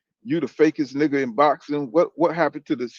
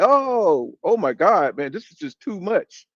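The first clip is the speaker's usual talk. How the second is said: higher, mocking overwhelmed sigh; mock whining; 4 semitones higher, slower than usual. Mocking the fighter who says fans ask too much, whiny mock voice. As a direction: mimic a fighter crying about the pressure, hammed-up.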